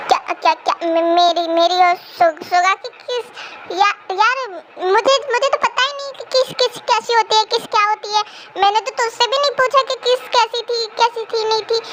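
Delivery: stammer, trying to dodge the question; flustered stammering. Acted. Jimina asked about Suga's kiss, flustered stammer.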